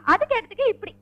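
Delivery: wailing, injured pleading; crying. Acted. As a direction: drag it out in a sobbing complaint. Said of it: "ஏன் அழுவுறீங்க?".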